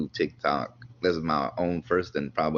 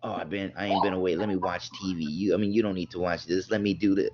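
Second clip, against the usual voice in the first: faking tiredness; 3 semitones higher than usual. Retold or imitated. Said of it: "act like she did twelve, twelve hours in the shipyard".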